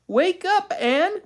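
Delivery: high, urgent wake-up call; scary, urgent. A narrator's reading. Joan waking her twin sister, scary and urgent. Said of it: "making her voice scary and urgent".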